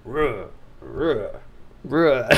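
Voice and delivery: sputtering engine. Retold or imitated. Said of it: "the bear just kinda going".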